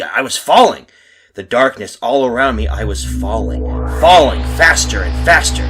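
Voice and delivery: loud, panicked narration of a fall; terrified cry. Acted. Man relives falling into the horrible abyss, terrified cry. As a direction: cry out as if plunging into blackness.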